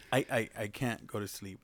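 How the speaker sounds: softly stammered complaint; quiet imitation. Storyteller quoting friend who can't sleep, soft imitation. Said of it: "this is how he said".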